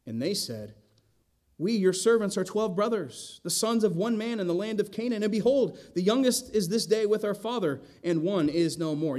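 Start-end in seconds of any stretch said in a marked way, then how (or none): 1.6-9.2 higher, rushing anxious babble; nervous babbling. Acted. Brothers babbling their life story to Joseph, higher and nervous. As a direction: pour out the whole story in a panic. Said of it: "they're babbling, going on and on".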